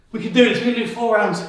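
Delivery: loud pep-up to push through; rally yourself loudly mid-workout; motivational shout. Real, not acted. Self-coaching mid set.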